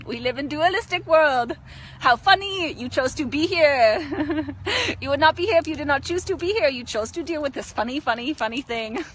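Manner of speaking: put-on giggly guru with an Indian accent. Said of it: "It is like my Indian guru side".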